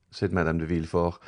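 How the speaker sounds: ordinary delivery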